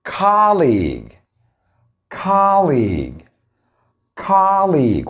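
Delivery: "colleague" said slowly as KAH-leeg; teacher drilling "colleague" for repetition; model pronunciation. Shown as a demonstration. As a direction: stress the first syllable of "colleague", short and clear. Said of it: "Number two".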